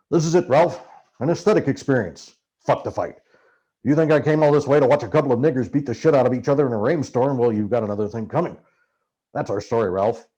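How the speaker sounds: Hunter's voice, ranting. Acted. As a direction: bark the plan like a wild-eyed Hunter. Narrator voicing Hunter's rant.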